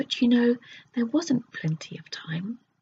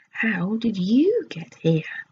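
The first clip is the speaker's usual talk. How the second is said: excited cry; 5 dB louder, slower than usual. Acted. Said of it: "cried Bessie and Fanny".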